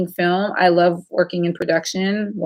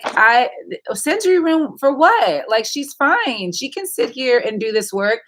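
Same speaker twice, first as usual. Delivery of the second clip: higher-pitched mock objection; retold incredulous protest; 5 semitones higher than usual. Mother objecting to the school's sensory room offer, retold incredulous protest. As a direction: push back in rising disbelief.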